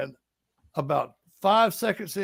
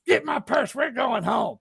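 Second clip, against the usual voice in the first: higher-pitched imitation of an embarrassed wife; mock-urgent order, pitched up; retold embarrassed order; 5 semitones higher than usual. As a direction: mimic a wife ordering her husband out. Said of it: "looked at her husband and says".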